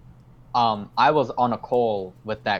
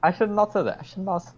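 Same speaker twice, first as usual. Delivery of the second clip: pitched-up mock giant voice, a light sketch; half-jokey higher voice of a big lovable giant; lightly voiced gentle giant, pitched way up; Hagrid impression; 7 semitones higher, faster than usual. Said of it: "going all Hagrid".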